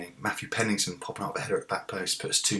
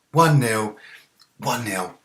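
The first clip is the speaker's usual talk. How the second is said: celebrating; 3 semitones higher, 9 dB louder, slower than usual. Real, not acted. Celebrating goal.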